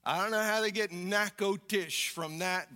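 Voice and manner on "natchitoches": Natchitoches said as "NACK-oh-tish"; local pronunciation. Shown as a demonstration. Pastor puzzling over the local name, Natchitoches as "NACK-oh-tish". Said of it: "that's how they pronounce it down there".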